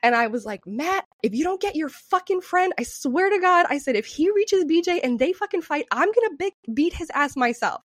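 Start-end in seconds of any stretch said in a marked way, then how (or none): 0.7-3.7 high, mock-yelled threat; heated warning, pitched up; retold screaming. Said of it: "I was screaming at Matt". 4.0-7.8 mock-yelled ultimatum, pitched up; worked-up retold threat; retold screaming. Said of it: "I, I was, like, screaming this".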